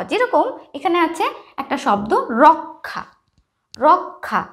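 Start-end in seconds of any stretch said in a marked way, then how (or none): 2.4-4.4 রক্ষা slowly, k then aspirated kh; রক্ষা pronounced rok-kha. Shown as a demonstration. Teacher showing pupils the conjunct, রক্ষা as rok-kha. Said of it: "যুক্তাক্ষর উচ্চারণ হচ্ছে ক আর খ".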